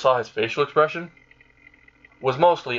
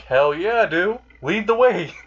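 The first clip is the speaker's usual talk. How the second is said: high, enthusiastic cheer; eager acceptance; 8 semitones higher, slower than usual. Acted. Azazel accepts Issei's dinner invitation, excited. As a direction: jump at the offer, pitch climbing.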